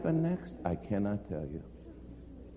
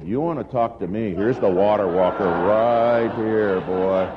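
boastful brag; 6 semitones lower, 7 dB louder than usual. Retold or imitated. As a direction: puff up and crow about him. Speaker boasts about the preacher.

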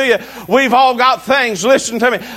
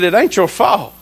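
lower-pitched, matter-of-fact retold reassurance; mild reassurance; 4 semitones lower than usual. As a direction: gently retell letting Daddy off the hook. First reassurance to upset father.

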